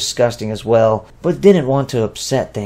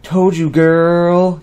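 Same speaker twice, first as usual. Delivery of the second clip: slow, breathless gasping words; out of breath; 6 semitones higher, 4 dB louder, much slower than usual. A narrator's reading. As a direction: gasp it out between breaths. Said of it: "Viet muttered while gasping".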